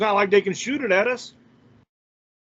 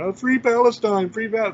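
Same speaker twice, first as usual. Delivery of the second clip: mocking libbies; 3 semitones higher than usual. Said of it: "That's like the thing that all the libbies are doing".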